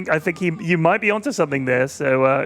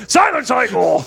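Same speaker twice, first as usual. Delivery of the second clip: mad scientist master; 4 semitones higher, 5 dB louder than usual. Acted. Mad master scolding servant Igor.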